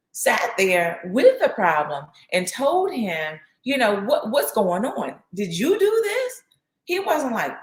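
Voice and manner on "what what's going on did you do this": much higher, rising in alarm on do this; an imitated frantic accusation; mock panicked mother; alarmed question. Widow confronts Elijah, retold.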